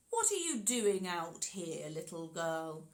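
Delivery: friendly wolf. Acted. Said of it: "in a voice as friendly as he could muster".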